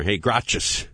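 gracias squashed into GRAH-chus; imitated mispronunciation. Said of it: "say to the waiter".

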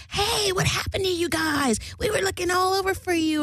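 high-pitched put-on voice of Mary; imitating clingy woman. Mary finds the couple who ditched her, high mimicking greeting.

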